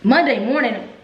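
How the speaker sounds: hyped storytelling; excited retelling. Real, not acted. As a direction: tell it like the best news ever.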